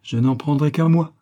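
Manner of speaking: light amusement without actual laughter; amused, laughing. A narrator's reading. Colonel reassuring the scolding friend, amused. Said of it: "dit-il en riant".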